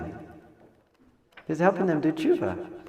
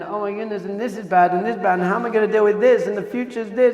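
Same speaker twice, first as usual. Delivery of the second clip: higher, rushed imitation of stressed worrying; mock anxiety; 6 semitones higher, 5 dB louder, faster than usual. Voicing the brothers' stress and tension, mock anxiety. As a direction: pile the worries up in a mock fret. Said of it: "all their stress and anxiety and tension".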